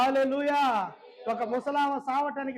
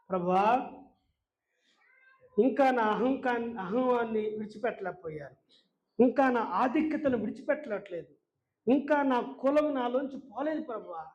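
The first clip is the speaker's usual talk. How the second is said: confessional prayer. Acted. Preacher confessing failings to the Lord on knees, prayerful pleading. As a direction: lead a penitent prayer, phrase by phrase.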